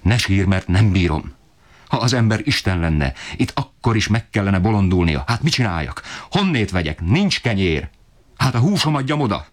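a desperate father ranting at the ceiling; climbing, high-pitched angry tirade; furious outburst. A narrator's reading. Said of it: "dühétől még jobban megdühődve".

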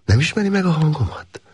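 lightly voiced woman, teasing question; playful woman asking; woman's voice. A narrator's reading. Woman's voice in story. (finoman megformált női hang)

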